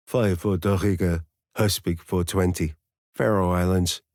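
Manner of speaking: put-on reading Danish place names in a native Danish accent; flawless Danish accent. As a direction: rattle off the Faroese address like a Dane would. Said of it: "in a flawless accent".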